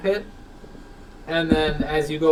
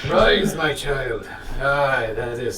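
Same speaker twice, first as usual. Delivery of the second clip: put-on Scottish accent; slower than usual. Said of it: "Put a little Scottish into it".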